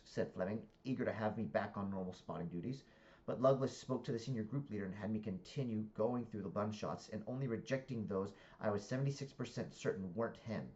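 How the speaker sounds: deliberate, projected book reading; story narration. A narrator's reading. Reader narrating a comic novel to listeners, animated narration.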